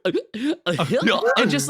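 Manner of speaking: choking gasp of a bad Goofy laugh; Goofy laugh attempt. Shown as a demonstration. Practicing the Goofy laugh alone in the office. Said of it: "trying to practice the Goofy laugh".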